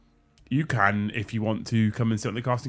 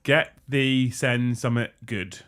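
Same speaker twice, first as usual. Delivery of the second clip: put-on Midlands accent; much slower than usual. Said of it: "I think this is a Midlands accent".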